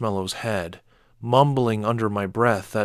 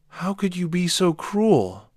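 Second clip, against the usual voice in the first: high, raised furious roar; 8 semitones higher than usual. A narrator's reading. Father roaring at his daughter. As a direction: roar it at her. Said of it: "I roared".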